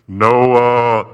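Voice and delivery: deep, loud divine call; booming God voice. Pretend. God calling down to Noah, deep and booming. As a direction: boom his name from the heavens like God.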